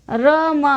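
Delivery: रम with r sounded before m; ra, then ma, pulled apart in रम; r before consonant. Shown as a demonstration. Teacher showing the order of sounds, r first in रम. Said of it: "इसको कैसे बोलते हैं?".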